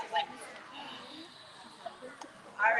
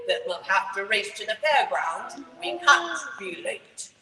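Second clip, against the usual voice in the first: Daddy Pig voice; 4 semitones lower than usual. Acted. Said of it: "says Daddy Pig".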